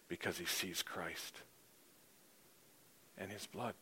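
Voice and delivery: slow, reverent preaching fading very soft; slow down and let it sink away softly; hushed preaching. Real, not acted. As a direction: drop from measured proclamation to near-hush. Hushed climax of the sermon.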